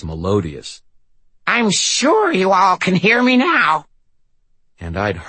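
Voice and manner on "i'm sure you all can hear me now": high, slow possessed rasp; demonic rasp. Acted. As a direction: drawl it like a demon over speakers. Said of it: "Linda Blair's impression of a demon-possessed victim".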